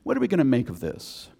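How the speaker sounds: a touch of a thoughtful apostle; pondering Paul. Retold or imitated. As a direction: wonder it aloud like Paul weighing it. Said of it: "picture him kind of scratching his chin".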